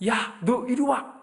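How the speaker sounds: high, sharp call to come here; angry summons. Retold or imitated. Pastor acting out an angry father calling his child, slow high shout. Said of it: "막 오라고 했습니다".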